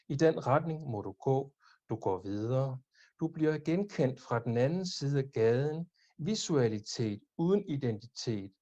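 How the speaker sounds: measured Danish poetry reading with pauses between lines; poem recitation. Acted. Reads own poem in Danish.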